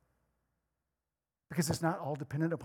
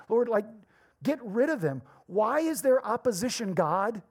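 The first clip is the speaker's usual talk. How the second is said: complaining prayer; 3 semitones higher than usual. Retold or imitated. Church asking God to remove threats, mock complaining prayer. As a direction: whine at God to fix it. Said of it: "what the early church didn't pray was".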